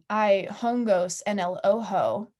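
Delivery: slow flat robotic Spanish. Retold or imitated. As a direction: spell it out like a robot. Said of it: "robotic voice".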